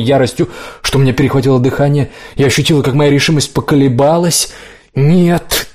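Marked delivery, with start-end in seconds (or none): 4.9-5.7 крик нет. A narrator's reading. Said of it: "ударила Калева по груди".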